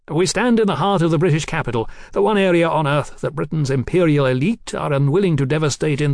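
a touch of fanatic oratory; lecturing Marquis. Acted. Marquis explaining his captain's strategy, insistent and declamatory.

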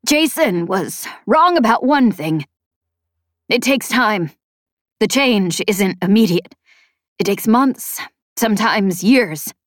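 lightly strained, tearful character voice; Chet. Acted. Chet tells Spensa of Jason's mistake, slow mild distress. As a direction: explain slowly, emphatically, a touch upset.

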